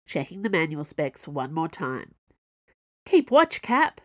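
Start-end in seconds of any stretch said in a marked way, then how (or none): 3.0-4.0 high, loud and chirpy; breezy, upbeat send-off; cheerful. A narrator's reading. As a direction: call it out cheerfully. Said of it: "she said cheerfully".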